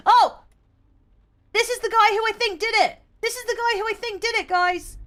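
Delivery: high, fast and thrilled; eager rush of recognition; excited. Real, not acted. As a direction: blurt out that it's him. Spots the murder suspect.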